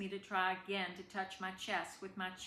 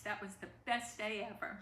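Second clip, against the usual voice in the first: tearful. Real, not acted. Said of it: "hear the tears in my voice".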